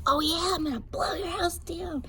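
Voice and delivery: boastful wolf; cocky wolf. Acted. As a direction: brag it quickly. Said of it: "he's like".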